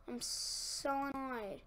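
slow, subdued grumble of annoyance; deflated annoyance. Real, not acted. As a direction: drag it out, the steam gone.

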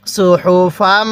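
সুহুফাম slow, the final ম hummed through the nose; nasal ghunnah demo. Shown as a demonstration. Teacher showing the ghunnah on mim to students. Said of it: "নাকের বাসি দ্বারা গুনাহ করব".

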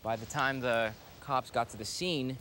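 slow, drawn-out grim reveal; grave storytelling. Acted. Man ending a tale of deadly dogs for friends, grave and slow. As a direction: let each phrase land with long pauses.

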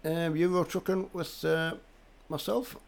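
hoarse from a head cold; croaky and full of cold. Real, not acted. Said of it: "so I've got a bit of a croaky voice".

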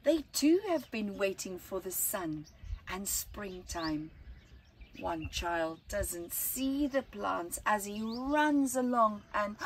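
put-on slow, lilting read-aloud for children; gentle storyteller reading to kids; story narration. A narrator's reading. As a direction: tell it like a bedtime picture book. Reads picture book aloud.

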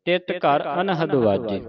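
slow, measured Gurbani recitation; deliberate teaching recitation of sacred verse; scripture recitation. Shown as a demonstration. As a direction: recite slowly, drawing out line endings.

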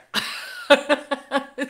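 high, loud laugh at the absurd tally; a real laugh breaking out; bursting laugh. Real, not acted. Laughing at how daycare made six people sick.

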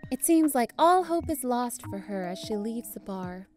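mock trailer voice, lightly done; hammed-up next-episode announcer; dramatic episode narration. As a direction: narrate her sad night like a soap recap.

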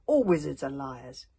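loud, scornful call; called out from the crowd. Acted. Warrior heckling the wizard boy, loud and scornful. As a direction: hurl the insult from far back. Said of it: "called a warrior from the crowd".

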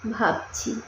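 softly dropped single word; pondering reply. A narrator's reading. Boy answers hesitantly, pondering.

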